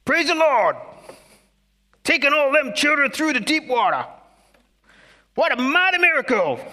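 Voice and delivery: put-on high, loud Black American church-elder accent; joyful Black American accent heckling from the congregation. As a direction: shout it out like an old Black American man in the pews. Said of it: "I hope you like my black accent".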